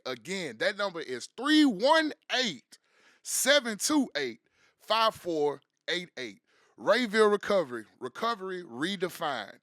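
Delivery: upbeat sponsor read for a rehab. Acted. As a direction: sell it like a radio spot. Host reads sponsor spot.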